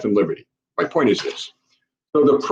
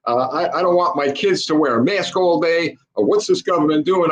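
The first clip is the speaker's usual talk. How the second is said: lightly voiced complaining worker, a bit higher; a hint of a whining union member; mocking whiny teacher; 4 semitones higher than usual. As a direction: imitate the protest with mild mock outrage. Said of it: "all over the internet screaming".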